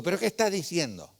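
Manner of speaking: loud, high startled cry of disbelief; shocked outburst. Retold or imitated. Retelling his shock as his friend offers to fight, loud startled disbelief. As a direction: blurt it out, can't believe what he's hearing.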